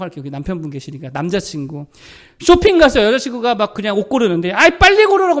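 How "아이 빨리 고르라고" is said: high, loud whiny nagging; impatient boyfriend. Retold or imitated. Boyfriend nagging girlfriend picking clothes, loud whiny impatience. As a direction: hurry her up, fed up and whining.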